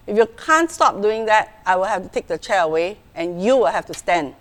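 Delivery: calm, firm parent; mother firmly warning her son about the chair; assertive. Shown as a demonstration. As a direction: set the rule steadily and clearly. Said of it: "This is another tone".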